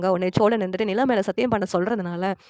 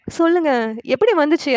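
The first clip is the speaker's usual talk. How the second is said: higher, louder demand for an answer; insistent questioning; 7 semitones higher, 4 dB louder than usual. Retold or imitated. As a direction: press him for an answer, voice raised. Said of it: "நிலா கேட்டுட்டே இருக்காங்க".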